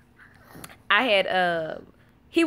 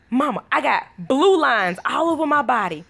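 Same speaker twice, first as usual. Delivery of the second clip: put-on slightly raised, mildly alarmed kid voice; lightly voiced son; 4 semitones higher than usual. Son runs to mama in the kitchen, mild alarm. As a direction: imitate a child reporting a strange discovery. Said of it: "LeBron say".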